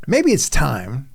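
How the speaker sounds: high, light daughter voice, then slowing; daughter's voice. Retold or imitated. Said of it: "my daughter is".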